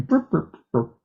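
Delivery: short spoken burp noises; imitated burps. Shown as a demonstration. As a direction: make little burping noises. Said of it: "like that".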